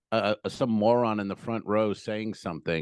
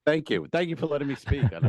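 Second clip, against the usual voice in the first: sarcastic thanks; 5 semitones higher than usual. Real, not acted. Mock thanks to co-host.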